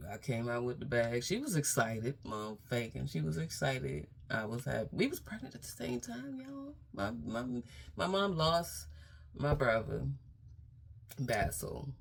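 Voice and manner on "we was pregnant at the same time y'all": hushed whisper to the audience; whispered aside. Real, not acted. Letting viewers in on a family secret in a whisper.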